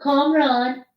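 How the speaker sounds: put-on high, drawn-out Persian-accented gushing. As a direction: coo over a long-missed friend in a Persian accent. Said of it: "do the Persian back and forth".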